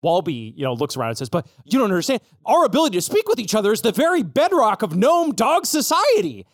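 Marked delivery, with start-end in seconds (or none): 1.3-6.5 high, impassioned protest; dramatic high-pitched appeal; pleading gnome-dog. Acted. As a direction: plead it with rising, theatrical urgency. Dog pleads amid nervous panic.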